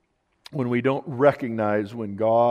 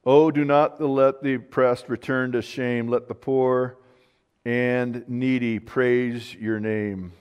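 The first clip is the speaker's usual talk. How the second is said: slow, measured Bible reading; deliberate prayerful reading; scripture reading aloud; 4 dB louder, slower than usual. Acted. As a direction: read the psalm out slowly, with weight.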